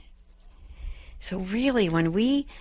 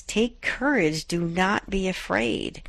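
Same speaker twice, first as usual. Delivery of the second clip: reassuring; slower than usual. Acted. Jesus reassures, slowed quote.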